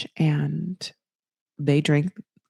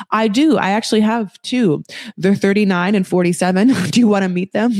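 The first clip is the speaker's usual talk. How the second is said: joking boast; 2 semitones higher, 4 dB louder than usual. Retold or imitated. Joke answer as Natalie, then laughs.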